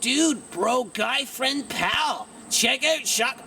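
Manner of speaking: high-pitched mock YouTuber bro; douchebag YouTuber. Mocking the voice they are asked to change to, lightly voiced douchebag YouTuber. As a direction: lightly put on a YouTuber buddy voice. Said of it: "something like the douchebag YouTuber".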